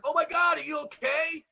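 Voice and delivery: high worried gasp; concerned bystander. Retold or imitated. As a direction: sympathetic high voice. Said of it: "people are like".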